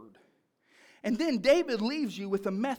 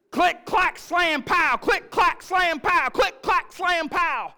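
loud, high, rhythmic chanted sound effects; hammed-up repetitive shouted chant; imitating noisy kid; 9 semitones higher, 10 dB louder, slower than usual. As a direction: fire off each word like a child at play. Imitates son's repeated noises in car.

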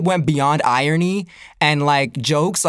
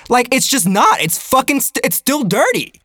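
exasperated insistence; 6 semitones higher than usual. Real, not acted. Insists, worked up.

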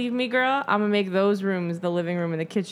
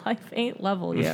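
laughing; 3 dB quieter than usual. Real, not acted. Echoed with laugh.

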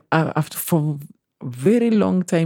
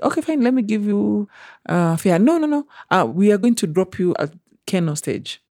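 higher, syrupy boss voice; lightly voiced boss, sweetly higher; mock sweet employer; 5 semitones higher than usual. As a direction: play the fake-friendly employer, pitched up. Employer voiced in retold exchange.

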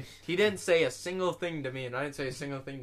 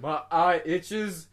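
imitating Hayden; 2 semitones higher, 5 dB louder, much slower than usual. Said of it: "'Cause earlier he said".

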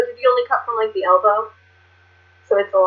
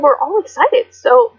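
normal talking voice

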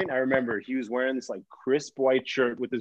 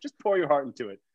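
needling; faster than usual. Retold or imitated. Daughter arguing with her dad, needling him. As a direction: throw the book title back to needle him. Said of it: "wants to get under his skin".

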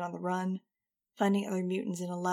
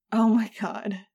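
loud; 10 dB louder, slower than usual. A narrator's reading. Iggy aghast at the news.

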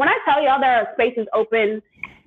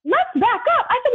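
exasperated; 14 semitones higher than usual. Retold or imitated. Retelling her heated exchange with the clerk.

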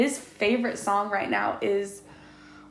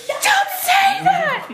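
higher, slow, stretched scold; scolding shout; 4 dB louder, much slower than usual. Retold or imitated. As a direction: snap at the toddler to stop. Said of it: "I'm like".

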